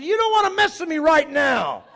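high, full-volume challenge; shouting back. Retold or imitated. Preacher answers the man at the window, shouting back. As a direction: holler a warning up at a heckler.

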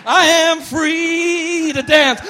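loud, high and very slow shout; loud, drawn-out cry of freedom; joyful Lazarus. Acted. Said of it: "imagine Lazarus beginning".

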